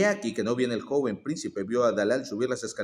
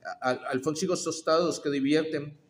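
higher, slow trembling hawker's call; old woman hawking, a bit higher and slow; trembling street-vendor cry; 3 semitones higher than usual. Acted. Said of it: "gritando con voz temblona".

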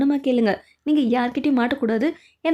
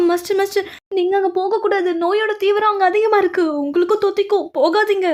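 urgent pleading; 5 semitones higher than usual. Acted. Begging the master not to go.

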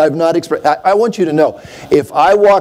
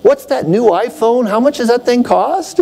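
higher, eager mock customer voice; 7 semitones higher than usual. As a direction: play the excited phone buyer. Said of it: "Everybody goes in and says".

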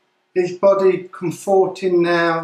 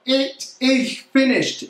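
a touch higher, mildly raised cry; mock cry; 4 semitones higher than usual. Reporter repeating the cry from the cross, mildly raised. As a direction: echo the cry a little lifted. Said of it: "Jesus shouting out".

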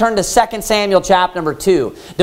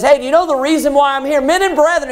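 quick, raised-pitch retold blurt; mock outburst, pitched up and hurried; 5 semitones higher than usual. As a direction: blurt it out as a sudden announcement. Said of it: "He, he blurts this out".

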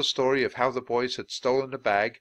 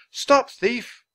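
high, loud, drawn-out cry; mock yell; 8 dB louder than usual. A narrator's reading. Charles quotes thieves leading a chase, mock yell. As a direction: call it out slowly as if in chase. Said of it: "yelling, 'Stop thief!'".

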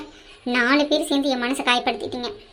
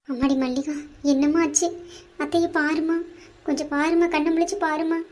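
tender coaxing; 3 semitones higher than usual. Acted. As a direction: gently call the fainted girl back. Aunt gently wakes fainted niece.

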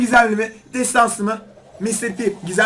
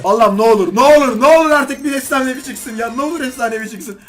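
loud, desperate begging; loud pleading; 5 dB louder than usual. Real, not acted. Oyuna efsanevi için yalvarıyor. (yüksek sesle yalvararak)

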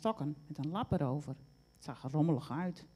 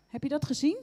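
high, louder excited question; 9 semitones higher, 6 dB louder, faster than usual. A narrator's reading. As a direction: burst out with eager news. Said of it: "zei ze opgewonden".

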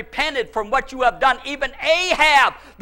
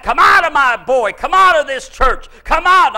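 loud deliverance command, climbing on each order; bold command; 2 semitones higher, 6 dB louder than usual. Retold or imitated. Preacher acting out casting a spirit from his boy, bold command. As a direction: order the devil out boldly. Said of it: "I wasn't boldly confessing the word".

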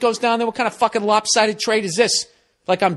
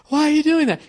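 mock wife voice; 9 semitones higher, faster than usual. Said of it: "acted quarrel, wife's line".

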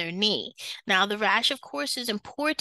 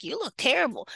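high, swooping tactless reaction; mock dismay; 4 semitones higher than usual. Nurse blurting at a sick patient, mock dismayed. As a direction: blurt it out, hammed-up and appalled. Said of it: "You have to get your poker face".

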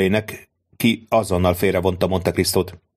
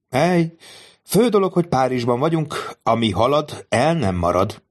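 higher, lightly voiced self-satisfied count; savoring his triumph to himself; a hint of a pleased schemer; gleeful count thinking; 5 semitones higher than usual. Monte Cristo's gleeful thoughts.

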